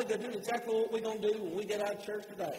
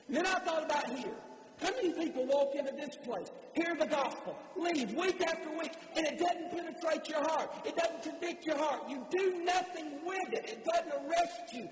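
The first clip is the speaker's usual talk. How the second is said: higher-pitched, insistent preaching delivery; forceful preaching; 5 semitones higher than usual. Real, not acted. Preacher challenging the congregation about leaving unchanged, forceful preaching. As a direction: press the congregation hard in a raised pitch.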